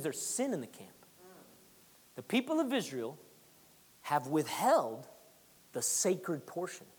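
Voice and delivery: low, soft, slow pronouncement; grave divine voice. Acted. God telling Joshua of sin, low and solemn. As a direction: deliver it low and heavy like judgment.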